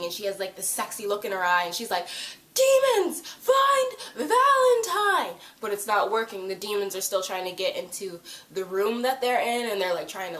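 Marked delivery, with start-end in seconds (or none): 2.5-5.3 high, loud, drawn-out mock battle command; commanding shout. Clary ordering demons with the cup, commanding shout. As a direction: belt it out like summoning demons. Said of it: "her voice suddenly becomes, like, commanding".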